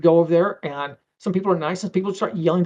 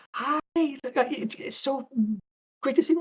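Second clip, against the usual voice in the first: much higher, bright feminine greeting voice; Darlie's greeting; 10 semitones higher, 3 dB quieter than usual. Retold or imitated. Darlie greeting an old coworker at the party, high and friendly. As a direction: play it as a cheery high-pitched hello.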